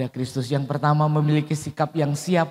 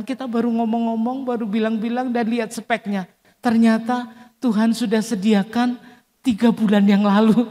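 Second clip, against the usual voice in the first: higher, excited retelling of the wife's wonder; amazed wife; 6 semitones higher than usual. Retold or imitated. Wife tells her husband, amazed and higher. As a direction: marvel aloud like a grateful wife. Wife marvels at God's gift.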